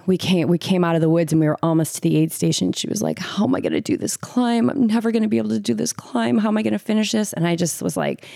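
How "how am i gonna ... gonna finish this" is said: imitating an overwhelmed runner, higher pitch; mild mock despair in a raised voice; retold distress. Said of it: "like, emotional".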